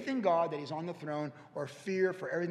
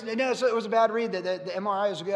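louder, higher, fast and laughing; excited news; 5 semitones higher, 10 dB louder than usual. Retold or imitated. Pastor retells the wife blurting that the scan was clear, excited and laughing. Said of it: "Jennifer goes".

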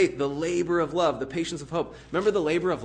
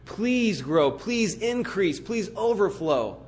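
slow, drawn-out begging; pleading; 3 semitones higher, much slower than usual. Retold or imitated. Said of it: "he's begging us".

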